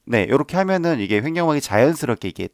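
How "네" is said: ordinary delivery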